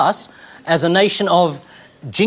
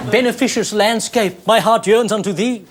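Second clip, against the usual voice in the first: mock sonnet recital; 4 semitones higher than usual.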